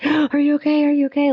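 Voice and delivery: high, worried "are you okay"; kids' worried voice. Retold or imitated. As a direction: play the alarmed child.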